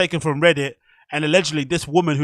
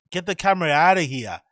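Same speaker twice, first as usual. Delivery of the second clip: lightly mimicked North American regional accent; imitated North American accent. Viewer copying the man in the video, mock North American accent. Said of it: "what accent is that".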